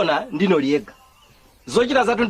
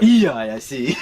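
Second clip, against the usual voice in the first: sharp shouted protest; 6 semitones lower, much slower than usual. Acted. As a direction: cut them off with a yell. Angry refusal in quarrel.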